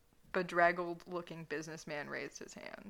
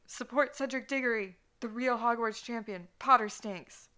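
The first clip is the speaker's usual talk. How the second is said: high, loud rallying cry; yelling after someone; 5 semitones higher, 7 dB louder than usual. Acted. Edward yells after Draco into the night, loud and high. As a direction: bellow it down the street like a cheer. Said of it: "yelled after him into the night".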